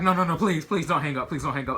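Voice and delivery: frantic pleading. Retold or imitated. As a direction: beg her not to hang up, panicked. Begging mom not to hang up.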